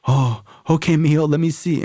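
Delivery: gentle mom voice. Retold or imitated.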